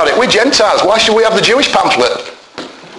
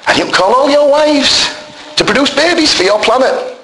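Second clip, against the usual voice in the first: mocking tone; 8 semitones higher than usual. Mocking a sect's belief.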